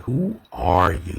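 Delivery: "Who are you?" with a leaned-on R in "are"; inflection on the R. Shown as a demonstration. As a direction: lean into the R of "are", asking for depth. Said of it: "You hear that inflection of the R".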